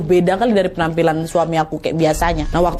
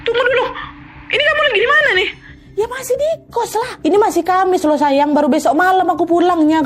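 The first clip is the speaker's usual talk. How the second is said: very high, alarmed questioning; suddenly worried, asking where she is; husband realising something is wrong; puzzled husband; 11 semitones higher than usual. Retold or imitated. Husband puzzled, still at boarding house.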